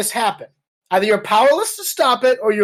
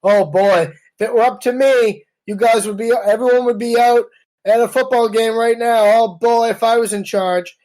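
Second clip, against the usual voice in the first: Trump; 3 dB louder than usual. Retold or imitated. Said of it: "shakes his head and says".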